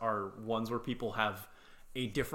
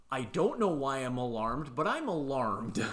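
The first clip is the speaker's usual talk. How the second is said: imitating mild alarm. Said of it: "being a little bit unsettling".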